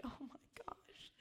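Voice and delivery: breathy whispered gasp, slowed down; slow mock-horrified whisper; retold whisper. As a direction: whisper it like a private panic. Retold panic over flood of emails.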